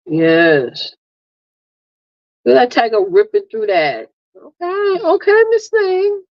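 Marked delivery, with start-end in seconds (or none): 4.4-6.2 sassy okay. Real, not acted. Teasing her daughter.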